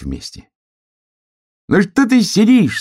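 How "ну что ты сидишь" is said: much higher, louder playful hare voice; a bouncy sun hare calling out; big sun hare. A narrator's reading. Big sun hare calls the sitting hare, high playful voice. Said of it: "сказал большой солнечный заяц".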